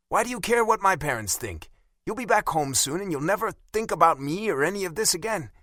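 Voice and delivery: put-on high, sharp offended young woman; Bella angry. A narrator's reading. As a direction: bite back, insulted. Narrator voices Bella, upset.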